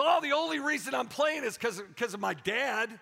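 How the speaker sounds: a hint of a kid's protest; complaining kid. Kid telling his coach why he plays, lightly imitated complaint. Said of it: "the kid will go".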